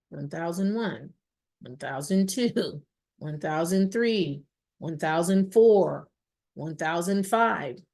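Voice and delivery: slow, measured count with pauses; drawn-out, evenly spaced counting; slow count to five. Shown as a demonstration. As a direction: count out each second, leaving space. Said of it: "count to five in my head".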